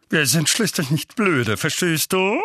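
irate, emphatic warning; indignant uncle. A narrator's reading. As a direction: put the boy in his place. Uncle rebukes nephew.

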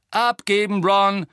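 high, loud captain's shout; called command. A narrator's reading. Angelina carries on practice after Ron's fumble, called command. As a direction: call the order across the pitch. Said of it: "rief Angelina, als wäre nichts passiert".

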